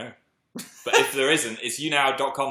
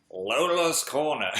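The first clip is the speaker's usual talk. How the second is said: slow, drawn-out creepy voice; creepy Phil's Corner voice; slower than usual. Pretend. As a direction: draw it out like a creepy host. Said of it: "say hi to Lola in the Phil's Corner voice".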